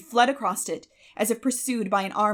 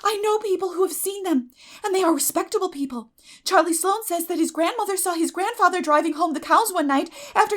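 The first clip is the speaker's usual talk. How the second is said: eager chatter; 7 semitones higher, 8 dB louder than usual. A narrator's reading. Girl eagerly tells ghost stories.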